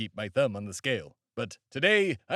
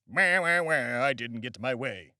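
lightly voiced crybaby whine; mock him as a sulking baby; a hint of a whining brat; whiny Benedict Arnold; 3 semitones lower than usual. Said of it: "That's my impression of Benedict Arnold".

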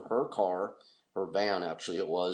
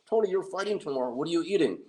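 exasperated; 8 semitones higher, faster than usual. Retold or imitated. Scolding Tony in story.

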